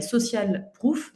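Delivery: a plain English accent on social proof, said slowly. Real, not acted. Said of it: "Désolée pour mon accent anglais qui n'est pas merveilleux". (prononcé à l'anglais, lentement, accent anglais modeste)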